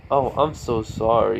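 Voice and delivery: slow, put-on condolence; drawn-out fake sorry; mock sympathy. Teasing a friend about his breakup, mock sympathy.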